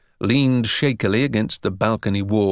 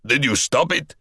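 eager shout; 3 semitones higher than usual. A narrator's reading. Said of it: "eagerly shouted up".

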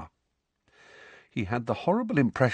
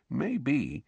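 a softer, hushed Maybe; lower voice; 4 semitones higher, 7 dB quieter than usual. A narrator's reading. Ron leans in to hint at Snape, hushed. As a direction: drop the voice, conspiratorial. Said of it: "in a lower voice".

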